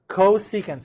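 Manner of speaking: "Cosecant" said clearly, syllable by syllable; teacher showing how "Cosecant" sounds; pronunciation demonstration. Shown as a demonstration. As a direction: model "Cosecant" for the class. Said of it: "how do I pronounce it?".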